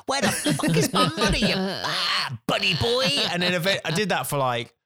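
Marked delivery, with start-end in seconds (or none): 0.1-3.1 wheedling hey mate turning into a high yelled demand for money; mock angry shout. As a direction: go from fake friendly to furious. Escalating shout at non-paying promoter.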